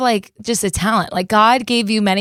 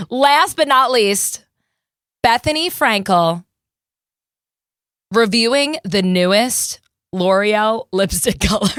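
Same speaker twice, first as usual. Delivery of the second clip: announcer; 3 semitones lower, slower than usual. Shown as a demonstration. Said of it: "announcing next impression".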